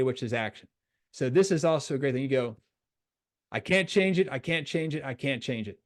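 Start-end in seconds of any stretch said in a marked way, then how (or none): 3.5-5.8 repeated phrase stepping down in pitch and volume; letting go. Shown as a demonstration. Coach showing players how to accept mistakes, letting go. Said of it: "You're trying to let go of it".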